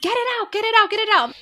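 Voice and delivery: high-pitched mock scream; half-screamed, reliving labor pain; retold screaming. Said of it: "I was screaming".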